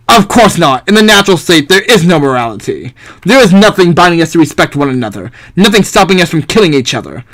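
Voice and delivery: haughty thinker, mildly pompous declaiming; lightly voiced philosopher. Philosopher presents the natural state to the Arbiter, lightly pompous. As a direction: present the theory with a hint of grandeur. Plays Hobbes answering objection.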